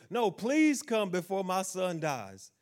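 slow, pleading mock beg; begging father. Preacher voicing the official pleading before his son dies, mild plea. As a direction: drag out the plea.

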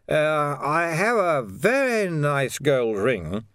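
put-on high, halting, slightly drunk voice; tipsy, dread-filled man. A narrator's reading. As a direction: offer it slowly and nervously, pitched well up. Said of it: "and then the voice said".

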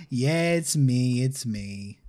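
slow, laughing through the words. Real, not acted. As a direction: let the laugh carry the line. Laughing while answering Bella.

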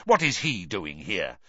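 understated venom; snarl. Acted. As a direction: demand it with dislike. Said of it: "he snarled".

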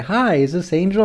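imitated eager fan. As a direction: play a follower greeting her podcaster. Imitates the eager follower on phone.

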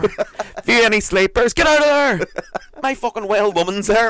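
high, loud scolding shout; hammed-up indignant yelling; mock outrage. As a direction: yell at a snooper in pretend fury. Acts out catching a tablet-drawer snooper.

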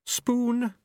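high imperious command. A narrator's reading. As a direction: snap it out like a queen. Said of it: "she commanded".

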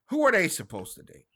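ordinary talk, nothing marked

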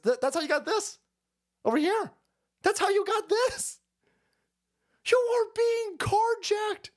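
high, slow drawn-out announcing; mock announcement. Comic hamming up a carjacking, high slow call. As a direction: draw it out like a ringside call. Mocking bit.

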